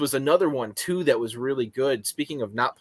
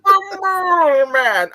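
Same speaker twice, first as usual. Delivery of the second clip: slow, higher, louder announcer voice; dramatic announcer; 8 dB louder, much slower than usual. Pretend. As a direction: boom it out like a trailer. Echoes the dramatic nickname.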